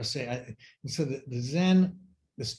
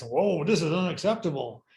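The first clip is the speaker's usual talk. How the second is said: pitched higher, indignant self-important ego; a lightly hammed-up outraged pride; mock inner ego voice; 5 semitones higher than usual. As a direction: puff up like a wounded ego who can't believe it.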